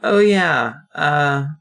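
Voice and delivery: lightly projected afterthought; calling back. Acted. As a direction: call it back over your shoulder. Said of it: "calls back after you".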